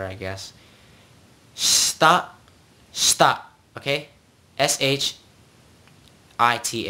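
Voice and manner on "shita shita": "Shita" as one syllable, shta; dropped vowel. Shown as a demonstration. Teacher demonstrates the simpler form, shta. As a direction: run sh straight into ta in "shita". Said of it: "trying to make it, like, simpler".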